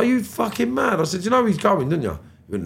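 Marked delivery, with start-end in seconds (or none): 0.0-1.0 much higher disbelief; outraged at the idea; incredulous. Retold or imitated. To his friend Kian, a much higher, incredulous outburst. 1.2-2.2 higher, louder threat; heated warning. Retold or imitated. To his friend Kian about the attacker, a higher, louder, heated warning.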